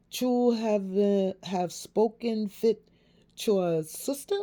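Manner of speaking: lightly voiced questioning detective. A narrator's reading. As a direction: raise the pitch for a puzzled detective. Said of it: "Detective Mueller questioned with raised eyebrows".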